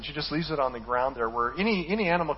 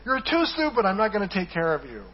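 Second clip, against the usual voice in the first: voicing God; 5 semitones higher, 5 dB louder than usual. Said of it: "God says about the ostrich".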